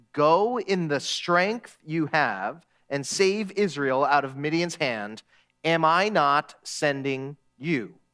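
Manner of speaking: slow, deliberate voice of the Lord; measured, weighty scripture reading. A narrator's reading. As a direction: read it slowly and solemnly, word by word.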